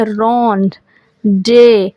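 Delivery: rendezvous drawn out very slowly as "ron-day-voo"; teacher slowly models rendezvous for students; slow model pronunciation. Shown as a demonstration. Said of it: "इसको कैसे पढ़ेंगे".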